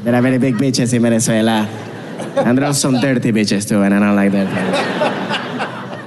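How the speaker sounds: low, innocent "bitches" meaning beaches; earnest pupil saying "bitches" with a short i; mispronounced beaches. Acted. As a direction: present solemnly, "bitches" standing in for beaches. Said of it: "I couldn't say the word beach".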